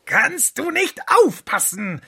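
very high, slow, loud nagging screech; shrill scolding. A narrator's reading. Fox burnt by the milk, shrieking at the stove. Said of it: "keifte er".

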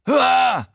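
high piercing shriek of fright; startled scream. Acted. Narrator caught naked by Showalter, screaming in fright. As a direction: scream like a stuck pig. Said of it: "ich schreie wie am Spieß".

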